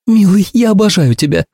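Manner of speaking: high, gushing woman's voice; adoring Ursula. A narrator's reading. Ursula gushing to her friend, high and doting.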